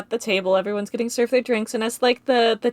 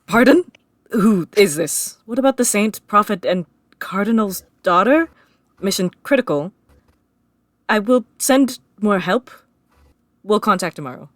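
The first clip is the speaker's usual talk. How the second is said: confused man; 5 dB louder than usual. Acted.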